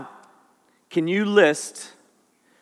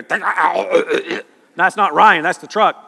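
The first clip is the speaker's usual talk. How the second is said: voicing the truck noise; much slower than usual. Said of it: "Then you hear".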